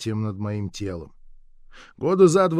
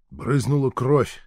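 ordinary delivery, nothing marked

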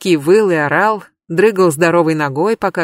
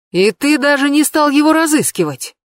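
higher, a touch of scorn in it; mocking question; 7 semitones higher than usual. A narrator's reading. Colonel mocks the suspect about his thief connections. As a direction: needle him with the question. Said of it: "насмешливо спросил".

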